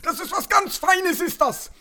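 squeaky high, fussy voice; high character voice. Acted. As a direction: play an excited little busybody. Character refuses, praises gift.

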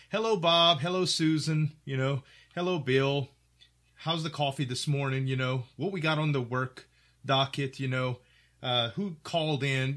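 mock-cheerful hellos around the office; cheery coworker greetings. Coworkers greeting each other at work, lightly voiced and cheerful. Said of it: "it's usually like".

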